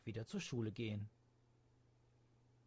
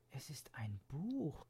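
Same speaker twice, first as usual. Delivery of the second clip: astonished; 2 semitones higher, 3 dB quieter than usual. Acted. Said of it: "sagte sie erstaunt".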